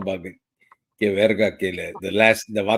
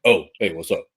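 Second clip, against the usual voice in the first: mock flat greeting, a bit lower; deep flat voice; 3 semitones lower than usual. Husband imitating wife answering his call, flat. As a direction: imitate her dropping the nice voice for him. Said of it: "The goddamn voice goes deep in the motherfucker".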